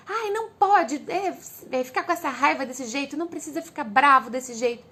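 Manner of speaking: put-on a mother snapping at her child; mock scolding of an angry son.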